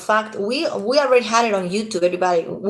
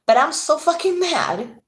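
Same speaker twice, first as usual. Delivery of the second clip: much higher, laughing through the rage; angry laugh; 9 semitones higher than usual. Real, not acted. Vlogger admits to viewers she laughs when mad, laughing in rage. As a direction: laugh it out because you're furious. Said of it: "And I'm laughing because".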